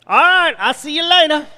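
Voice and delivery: sing-song see-you-later; Thibodeau goodbye. Acted. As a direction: toss it off cheerfully. Thibodeau's cheery goodbye in joke.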